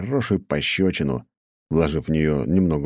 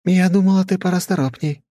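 mocking female voice; 13 semitones higher, 5 dB louder than usual. A narrator's reading. Duncan's mocking voice.

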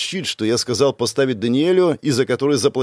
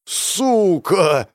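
raised, higher-pitched shout; 6 semitones higher, much slower than usual. A narrator's reading. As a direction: call out to him urgently. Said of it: "Протягиваю руку и кричу".

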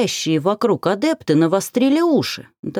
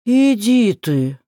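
gasping exclamation; 5 semitones higher, 3 dB louder, much slower than usual. A narrator's reading. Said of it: "охнул Живарк".

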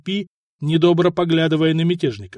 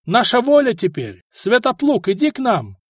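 calling out; 7 semitones higher than usual. A narrator's reading. Rebel calling out to ally.

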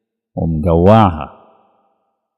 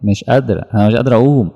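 a higher, exhausted soul; weak soul voice, mild; 4 semitones higher, much faster than usual. Pretend. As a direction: plead that she cannot get up.

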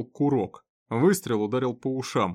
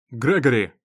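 loud call to stop a raging man; a sharp loud call across the station; 8 dB louder than usual. Acted. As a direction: shout his name to rein him in. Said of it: "окликнул Фелтон".

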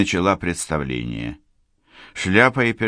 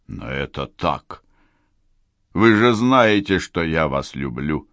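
pleading colonel. Acted.

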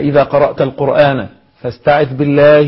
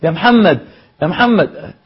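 calling out a name; 4 semitones higher than usual. Pretend. Teacher acts out someone calling a student who is busy memorising. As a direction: call the name to get his attention. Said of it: "لو قعدوا ينادوا عليك".

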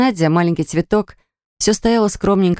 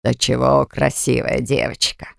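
put-on slow, lower, gushing old man voice; admiring old man; 4 semitones lower than usual. A narrator's reading. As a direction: coo over the girl like a doting elder. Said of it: "Баграт аж расплылся в восхищении".

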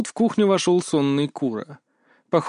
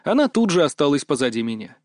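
ordinary delivery, nothing marked

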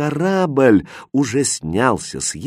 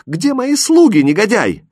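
shrill, much higher outraged yell; furious shout; 10 semitones higher, 6 dB louder than usual. Acted. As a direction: scream the insult at him. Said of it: "кричала она".

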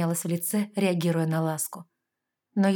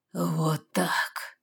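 hoarse. A narrator's reading. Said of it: "хрипло выдал мужчина".

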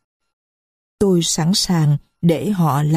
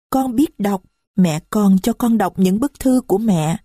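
put-on little girl's voice; 3 semitones higher than usual. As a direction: speak as a little child who is hurt. Marie answers.

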